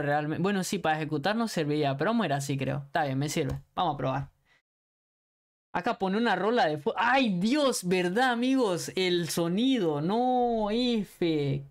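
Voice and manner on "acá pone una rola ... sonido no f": raging gamer. Real, not acted. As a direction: yell at the game, pitched up. Gamer yelling during play.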